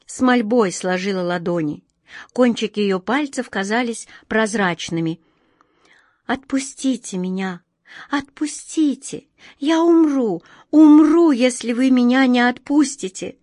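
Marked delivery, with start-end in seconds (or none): 6.3-13.4 high pleading cry, rising to a shout; ringing crystal chime voice. A narrator's reading. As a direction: beg desperately, voice climbing high. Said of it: "её тихо звенящий голос".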